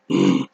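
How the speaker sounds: short wordless grunt in reply; imitated grunt. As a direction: grunt back like an unimpressed man. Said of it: "some kind of grunt noise".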